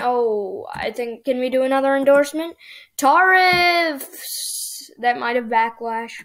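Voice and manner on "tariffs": high excited call; excited cry. Real, not acted. Player eagerly picking a campaign policy, excited cry. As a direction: blurt it out eagerly.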